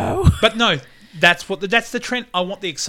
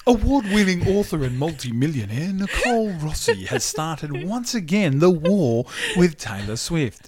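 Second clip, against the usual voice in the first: mock news report. Friend joking about a feud, mock news read. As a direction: announce it like a headline.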